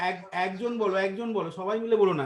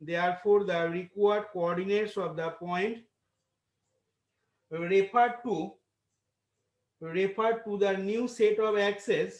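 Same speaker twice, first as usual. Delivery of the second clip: dictating; much slower than usual. Acted. Dictating answer to class.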